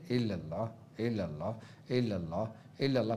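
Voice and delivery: hushed, low repeated chant; inward dhikr. Shown as a demonstration. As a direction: chant softly as if only in the mind. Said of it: "तुम तसव्वुर में करने शुरू हो जाना। कैसे?". (मन ही मन जैसा धीमा, दबा ज़िक्र)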